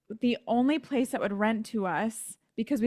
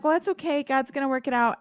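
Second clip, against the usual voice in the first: high, bright brush-off; imitating her chipper self, higher; chirpy brave face; 4 semitones higher, faster than usual. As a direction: pretend everything is fine. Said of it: "I just remember being like".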